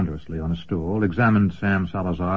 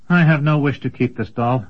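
put-on young apprentice; 5 semitones higher than usual. Apprentice speaks to Huss.

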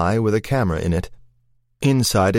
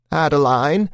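calling out; 6 semitones higher than usual. A narrator's reading. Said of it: "Constance called from below".

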